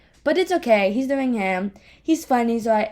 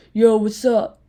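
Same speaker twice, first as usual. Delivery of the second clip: lightly put-on Boston accent, louder; fake Boston accent; 6 dB louder, slower than usual. Sister imitating brother on Snapchat, fake Boston accent. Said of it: "imagine a Boston accent".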